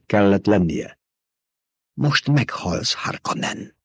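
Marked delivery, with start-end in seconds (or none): 1.9-3.8 slow, breathless threat, ending in a breathy gasp; a wounded fighter panting out a threat. A narrator's reading. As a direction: gasp the words out between breaths. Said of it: "lihegte a gladiátor".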